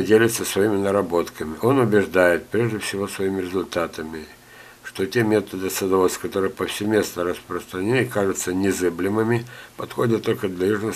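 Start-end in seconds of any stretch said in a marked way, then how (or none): none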